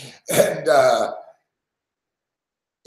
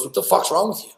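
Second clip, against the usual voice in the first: higher-pitched mock scolding; bitching fireman; 6 semitones higher, faster than usual. Fireman to host who stayed on air, bitching. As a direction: act out an incredulous telling-off, not shouted. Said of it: "bitching at me".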